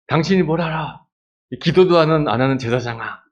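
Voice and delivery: high, loud indignant talk-back; angry retort. Pretend. Hannah snaps back at priest Eli, high and indignant.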